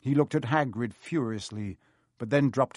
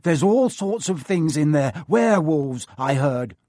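uneasy; 3 semitones higher, 5 dB louder than usual. Acted. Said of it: "didn't sound quite as cool as usual".

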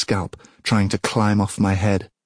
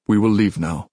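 gentle. Acted. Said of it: "Achilles said gently".

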